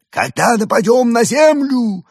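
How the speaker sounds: high, eager alien question. A narrator's reading. Alien Evgeny asks. (высокий голос пришельца)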